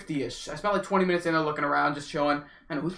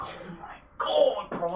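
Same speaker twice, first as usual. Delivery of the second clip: exasperated; 4 semitones higher, 3 dB quieter, slower than usual. Retold or imitated. Hearing the long wait.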